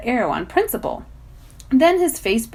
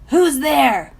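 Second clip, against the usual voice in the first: put-on boy's voice; 6 semitones higher, 7 dB louder than usual. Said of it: "comes a boy's voice".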